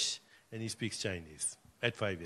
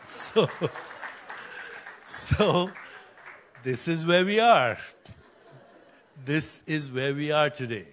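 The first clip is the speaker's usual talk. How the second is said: emphatic conclusion; 3 semitones higher, 9 dB louder than usual. Real, not acted. Speaker tells the audience what the story means, loud and emphatic. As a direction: proclaim it to the whole room.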